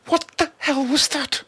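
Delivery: slow, very high disbelief; drawn-out shocked question; aghast. A narrator's reading. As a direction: ask in stunned alarm. Stumbling away in shock.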